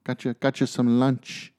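a hint of a cheerful wife; wife's voice. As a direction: chirp it up as the wife bringing lunch.

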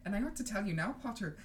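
lightly voiced strict professor; a hint of a brisk teacher's put-on accent; McGonagall read aloud.

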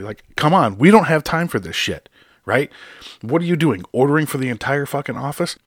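loud, high-pitched scolding; angry rant. Real, not acted. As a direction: let him have it. Continued rant at driver.

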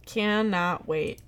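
slow, drawn-out feigned eagerness; drawn-out deadpan enthusiasm; sarcastic-sounding. Real, not acted. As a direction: stretch out each word, dryly unconvincing. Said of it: "That sounds sarcastic".

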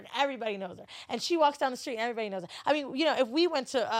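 lightly voiced boastful mother; a hint of one-upping proud mom; bragging mom. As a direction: pile up the boasts, pitched slightly up.

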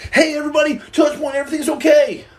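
high, overbright everything-is-fine voice; fake-cheery greeting. Greeting the live as if all's okay, fake cheer. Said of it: "I go".

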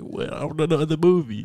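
high, loud, laughing confusion; baffled fan. Retold or imitated. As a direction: play dumb, loud and laughing. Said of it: "He's like".

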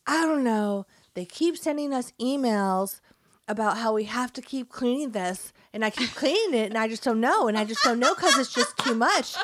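put-on high, loud whining child voice; a small boy complaining it's too much; whiny kid. Son complaining to mom about work, high whine. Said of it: "And he was like".

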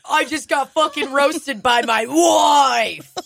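high slow laughing wail; laughing shout. Real, not acted. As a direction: cry out in laughing disbelief.

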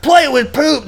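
high, loud mock girl voice; excited girl voice. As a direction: squeal it like a thrilled kid.

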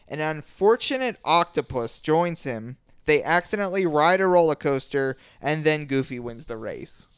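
reading the description aloud. Shown as a demonstration. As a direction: read it out with mock gravity. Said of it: "This is something that actually was written".

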